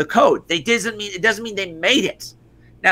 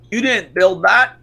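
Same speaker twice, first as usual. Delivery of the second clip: slow, louder, rising at the end; mock Obama quote; 4 dB louder than usual. Mocking a politician's famous line, slow and louder. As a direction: draw out the quote like a speech line.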